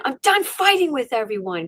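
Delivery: vent, worn out with fighting; fed-up inner rant; escalating rant. Retold or imitated. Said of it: "my mind's escalating".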